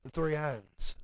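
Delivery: country accent, drawn-out "owns"; extra-country accent. Shown as a demonstration. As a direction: say it with a playful country twang. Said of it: "You gotta say it like that".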